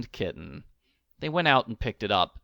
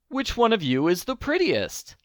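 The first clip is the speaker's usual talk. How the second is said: higher, calling out to the crowd; 10 semitones higher than usual. A narrator's reading. Old man asking the cats, calling out. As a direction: call across to all the cats.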